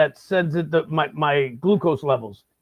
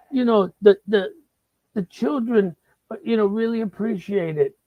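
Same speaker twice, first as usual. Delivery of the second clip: put-on higher, sugary little-girl voice; sweet scout girl; 5 semitones higher than usual. Scout girl selling cookies, higher sweet voice. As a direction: coax him like a sweet sixth grader. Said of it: "And she's like".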